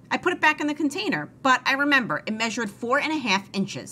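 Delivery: lightly voiced eager maid; Amelia Bedelia voice.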